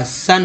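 सन with a short "uh", like "sun". Shown as a demonstration. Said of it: "ओ का उच्चारण अ हुआ". (सन में ओ का उच्चारण अ)

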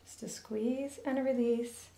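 soft whisper of the piping rhythm; hushed demo count; whispered cue. Shown as a demonstration. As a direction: breathe the instruction while working. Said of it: "a little touch of green".

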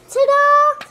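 loud, high triumphant ta-da; excited ta-da. A narrator's reading. Mum unveiling a plate for her son, loud and excited. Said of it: "she exclaimed excitedly".

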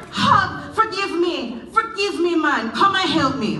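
high, loud begging cry; begging call. Acted. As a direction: plead with Hog not to leave. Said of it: "Anansi cried out".

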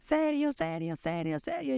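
high hammed-up cry of the son's name; mock frantic mother. Mother shrieking at her fainted son, mock frantic. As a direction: mimic mom screaming in panic.

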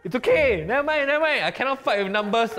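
mock resigned. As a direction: play the sore loser. Mock defeat over follower count.

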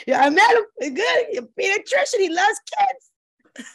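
woman gushing to friends about her new man; excited gushing. Retold or imitated. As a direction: brag like a giddy girlfriend.

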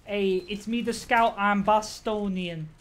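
lightly voiced Boston scout, slowing at the end; a hint of the brash Boston scout; playful mock Boston scout intro; scout voice lines. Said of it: "scout voice lines".

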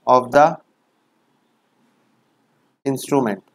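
very slow, word by word with long pauses; slow dictation. Shown as a demonstration. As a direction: dictate each phrase slowly so it can be written down. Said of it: "तुमको ऐसे पढ़ना है".

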